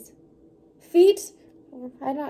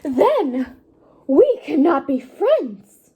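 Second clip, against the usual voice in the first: slow lament swelling to a louder cry; building to crying; 7 semitones higher, 8 dB louder, slower than usual. Acted. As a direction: despair building to tears. Gerald's rising despair.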